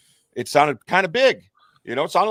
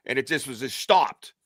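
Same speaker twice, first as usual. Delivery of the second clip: usual speaking voice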